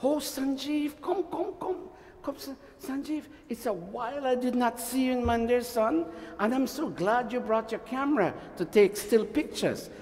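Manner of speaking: high, soft, gushing welcome; speaking sweetly. Shown as a demonstration. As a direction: coo a sweet, delighted welcome. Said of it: "That's not speaking sweetly".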